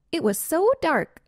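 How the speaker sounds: a small skunk spinning a scary tale; storytelling skunk. Acted. Spotted Skunk tells the family.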